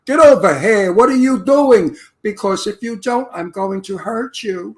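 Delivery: a touch of tough-guy menace; Hollywood gangster line. Retold or imitated. Actor shows the studio's gangster line, mild threat. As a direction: play the scripted movie mobster, lightly. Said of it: "but I'm gonna use a fake line, something like, "I'm a gangster".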